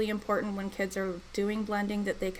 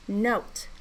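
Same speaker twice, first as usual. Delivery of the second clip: stretched blending. Shown as a demonstration. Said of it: "Let's do it all together".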